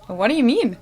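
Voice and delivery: usual speaking voice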